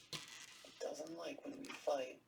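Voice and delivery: slow, hushed, breathy warning whisper; ominous whisper. A narrator's reading. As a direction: whisper it as if something upstairs might hear. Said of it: "he whispered ominously".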